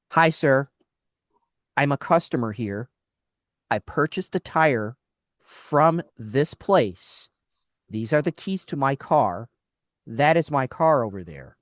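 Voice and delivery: deliberate, measured retold politeness; strained politeness. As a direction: spell it out patiently, phrase by phrase. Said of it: "really trying not to be an a-hole".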